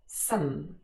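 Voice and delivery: "Some" unstressed, vowel reduced to a schwa; weak form. Shown as a demonstration. Teacher showing the weak form with schwa, unstressed. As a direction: let "Some" shrink to a short schwa. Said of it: "in its weak form with the schwa".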